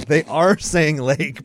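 "They ARE saying lake", slow and loud on "are"; slow, emphatic correction with "are" punched; stress on ARE. Real, not acted. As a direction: lean hard on "are", drawing the line out. Insisting answer to "say lake.

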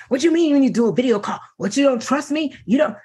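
fast, indignant retold complaint; mock upset man. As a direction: lightly act out his offended reply. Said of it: "He got upset".

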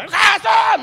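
high, drawn-out scream; desperate shouting. Acted. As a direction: scream the name over the shushing. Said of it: "Cuando aquel ciego gritaba".

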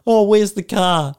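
high, loud anxious ask; mock worried question. Harrison asking Marion about the car, high and loud. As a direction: squeak out the question. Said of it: "He talks about".

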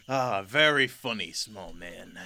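lightly voiced old lion, mockingly amused. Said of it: "old man lion kind of laughs and goes".

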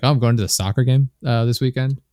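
"weekend" lifted as if asking; question-like inflection. Shown as a demonstration. Showing what the African girl heard, question-like ending on "weekend". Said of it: "sounded like we were asking questions".

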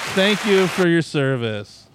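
slow fake-solemn gratitude; mock solemn thanks. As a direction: salute him with fake reverence. Mock salute to friend.

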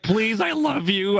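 high, slow mock begging; pleading husband. Streamer mimicking husband begging a favor, pleading. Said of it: "my husband's like".

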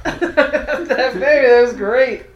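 loud, laughing praise; excited cheer. Real, not acted. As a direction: cheer them on loudly. Cheering the performance.

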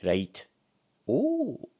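lightly voiced old-timey charmer; a hint of genteel, delighted charm; charming old-timey policeman. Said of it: "You kinda have, like, an aura of, like, charm".

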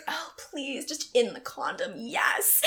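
acted pleading. Acts out her put-on enthusiasm.

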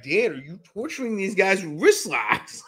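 incredulous question with a laugh breaking in; exasperated coach. Retold or imitated. Coach questioning Dan about wrist locks, mock disbelief. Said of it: "my coach is just like".

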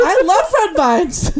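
loud laughter while talking; words breaking into laughs; laughing. Real, not acted. Both crack up over sponsor joke.

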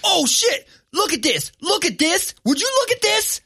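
high, loud gleeful disbelief; mock worker hooting over a huge order; excited coworker. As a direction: call the others over, thrilled. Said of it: "somebody goes".

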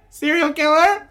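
high, loud laughing mock shriek. Co-host voices Katie's shocked reaction, high and laughing. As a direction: squeal it in disbelief. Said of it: "she was like".

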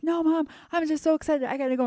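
put-on high, childlike voice, a touch squeaky; excited little girl. Small daughter begging mom to skip the bathroom, high childlike plea. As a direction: play yourself at two, bouncing to get to presents. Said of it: "And I'm like".

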